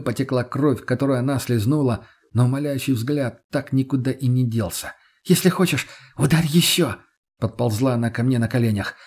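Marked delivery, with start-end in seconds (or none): 5.2-7.0 high, pleading voice; desperate plea. A narrator's reading. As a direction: offer yourself up, begging. Lena begging on her knees. (отчаянная мольба)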